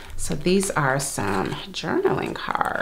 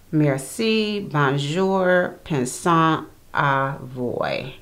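French phrases; much slower than usual. Shown as a demonstration. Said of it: "Get your French accent together".

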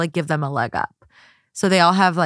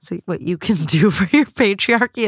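laughing; 3 dB louder than usual. Real, not acted. Laughing while reworking the quote.

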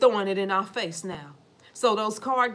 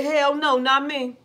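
mock refusal; 4 semitones higher, 4 dB louder, slower than usual. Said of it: "They say".

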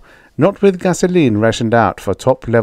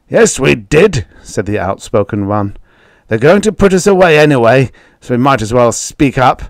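defiant farmer; 4 semitones higher, 5 dB louder than usual. Acted.

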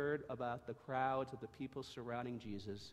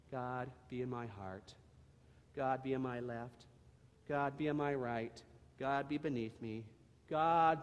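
calm, gentle prayer voice; leading a prayer. Acted. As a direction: lead the listeners in prayer. Leads prayer.

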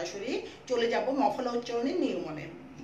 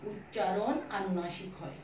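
slow dictation; 2 semitones lower, slower than usual. Shown as a demonstration. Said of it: "ভালো করে বুঝে নাও আমি কি বললাম".

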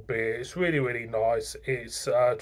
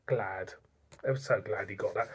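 whispered softer aside, mock relief; 5 semitones lower, 10 dB quieter than usual. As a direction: breathe it out like a secret. Quiet mock reaction to crown.

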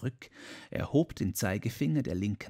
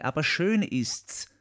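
higher and slow, lightly voiced; quoted Marie, first take; 6 semitones higher, 4 dB louder than usual. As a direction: draw out schön gently, a step above his own voice. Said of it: "Sie hat gesagt".

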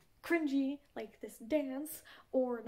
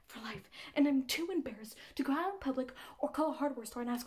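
insistent plea with loud bursts; desperate caller; 4 dB louder than usual. Acted. Asking friend to help free her hand, comically desperate. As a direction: press a friend urgently for help. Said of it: "because she is desperate".

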